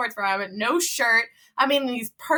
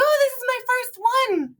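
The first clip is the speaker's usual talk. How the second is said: chirpy newbie; 12 semitones higher than usual. Retold or imitated. Newbie answers runners' question.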